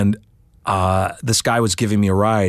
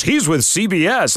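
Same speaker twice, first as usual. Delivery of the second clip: driver vouching; 9 semitones higher than usual. Retold or imitated.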